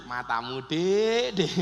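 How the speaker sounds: playful, coaxing endearment; joking tease. Shown as a demonstration. Husband joking with his wife, playful tease. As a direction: tease your wife with it affectionately. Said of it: "Tapi lak guyon".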